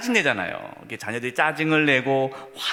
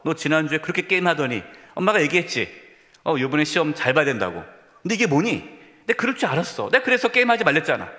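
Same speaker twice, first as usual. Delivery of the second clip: scolding mother. Acted. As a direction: scold like an exasperated parent. Acted mother scolding over grades.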